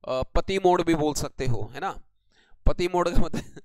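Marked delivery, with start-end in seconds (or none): 2.7-3.7 loud, real laugh taking over the words; breaking into laughter. Real, not acted. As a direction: crack up mid-sentence at your own joke. Cracks up at his own joke. (हँसी छूटते हुए बोलें)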